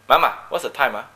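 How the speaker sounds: a light Malaysian accent, speaking to parents; lightly Malaysian, the tag ah at the end. Shown as a demonstration. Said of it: "I speak with a Malaysian accent".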